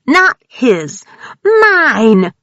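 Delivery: very slow, high, loud monstrous cry; inhuman screech. A narrator's reading. Grace gloating over her victims, slow inhuman screech. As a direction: stretch it out like a predator gloating.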